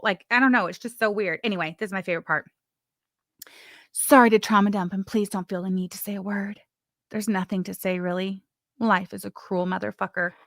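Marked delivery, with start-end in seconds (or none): 3.9-10.3 melodramatic reading. Retold or imitated. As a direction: sigh it out like a sad soap heroine. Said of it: "But that's how I sounded".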